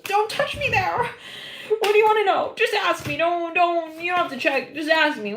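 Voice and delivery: high, flustered and defensive; nervous patient. Acted. A scared patient pleading with the doctor, high and flustered. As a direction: squirm away from the doctor's hands.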